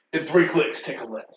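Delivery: flat GPS-style navigation prompt announcer voice. Giving GPS directions after another speaker asks for it: Master Chief voice as GPS. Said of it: "Master Chief's voice as your G P S".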